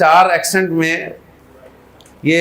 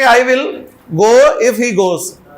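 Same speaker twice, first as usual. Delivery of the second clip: slow dictation; 2 semitones higher, much slower than usual. Shown as a demonstration. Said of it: "या उनका भी ठीक है".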